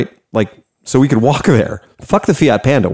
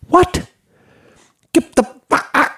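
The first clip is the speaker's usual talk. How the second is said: stunned disbelief; 3 dB quieter than usual. Real, not acted. Stunned by the guide's story.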